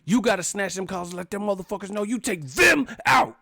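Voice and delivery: high, loud movie rant, easing at the end; acted tirade. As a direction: imitate a fired-up street confrontation. Acting out Juice movie confrontation.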